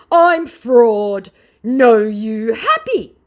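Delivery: high, loud broken-English scammer; mock scammer voice. Vlogger mocking the scammer's broken English, high and loud. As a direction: pitch up and drag it out slowly. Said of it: "he said".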